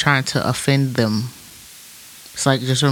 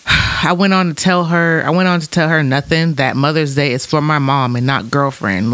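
emotional read. Shown as a demonstration. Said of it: "he was already in emotion".

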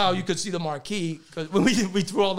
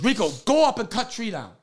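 imitated father's order; 4 semitones higher than usual. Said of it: "So he goes".

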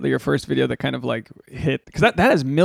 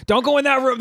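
lightly voiced mom, pitched up; imitating mom; 9 semitones higher than usual. Guest quoting mom about the off-limits room, lightly imitated. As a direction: give a mild mock motherly warning, higher. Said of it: "where mom's like".

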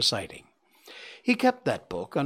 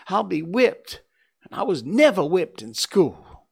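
higher and louder, tearful; crying girl; 7 semitones higher, 7 dB louder than usual. Acted. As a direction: sob out the fear. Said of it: "burst out crying".

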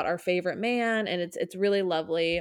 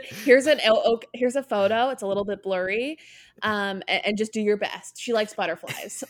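imitating a fussy client, louder at first; ditzy customer asking for a tattoo, a bit louder; mock client; 4 dB louder than usual. Friend imitating a client's vague instructions to the designer.

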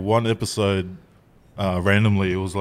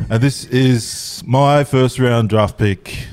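laughing; 3 semitones higher, much slower than usual. Real, not acted. Laughing mock introduction.

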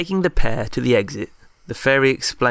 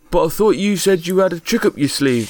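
high, youthful squire voice; a young lad pitching it up high; boyish squire voice; 7 semitones higher, 4 dB louder than usual. Acted. Young squire Toderick questions Alex.

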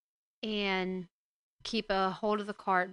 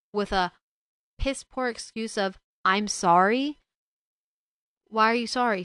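louder, pointed, indignant questions; angry scolding; 6 dB louder than usual. Real, not acted. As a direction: tear into him for running. Scolding the absent father.

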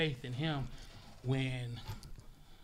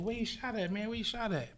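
voicing an old man; 7 semitones higher than usual. Old man asking about wound.

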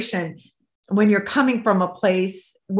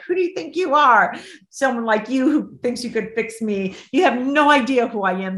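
sharp, raised, higher voice hurling a defiant challenge; angry challenge; 4 semitones higher than usual. Retold or imitated. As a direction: throw it at her like a dare. Bella confronts her angrily.

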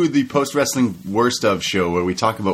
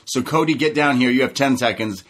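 imitating MJF; 4 semitones higher than usual. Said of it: "He says".

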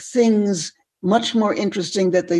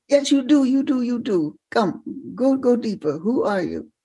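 put-on higher, insistent French-accented urging; 5 semitones higher than usual. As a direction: press a pupil in a French accent. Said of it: "in a French accent".

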